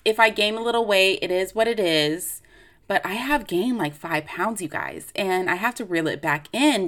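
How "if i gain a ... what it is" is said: upbeat self-quote. Retold or imitated. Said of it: "at first I was like".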